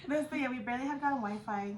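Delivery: laughing through the words, high and loud. Real, not acted. Telling friends about backed-up Wi-Fi, laughing. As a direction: giggle out the line as you tell it.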